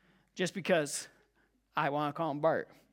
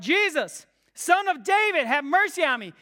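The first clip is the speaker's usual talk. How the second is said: a raised, higher cry for mercy; louder shout; 5 semitones higher than usual. Retold or imitated. Blind man crying to Jesus, raised cry. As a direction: call out over the crowd to get his attention. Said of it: "He shouts even louder".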